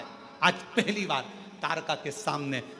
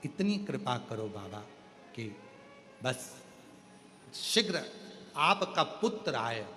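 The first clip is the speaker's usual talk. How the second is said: lower, soft humble plea; pleading demon Tarkasur; 7 semitones lower, 4 dB quieter than usual. Acted. Tarkasur begging Shiva for death and release, soft and humble. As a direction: beg the god for release, softly and lower.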